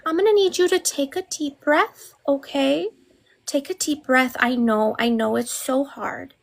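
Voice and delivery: mock soothing, like calming a toddler; patronizing gentle coo. Mock soothing a grown man.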